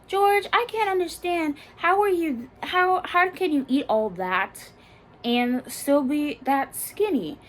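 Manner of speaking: high, incredulous imitation of the girl; mock girl voice. Girl teasing George at the lunch table, mock incredulous voice. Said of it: "And so she says".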